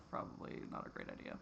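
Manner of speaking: soft unvoiced aside to yourself; whispered aside. Real, not acted. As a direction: breathe it out like a private thought. Answering her own question.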